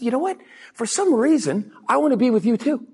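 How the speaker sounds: fond high reply; high, sweet reply. Retold or imitated. The speaker answering the client warmly, sweet and high. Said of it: "I said".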